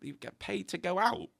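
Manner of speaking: jumps way up in pitch on the first word, amazed; disbelieving surprise. Retold or imitated. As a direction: retell your own stunned "what, really?". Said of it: "And I was like".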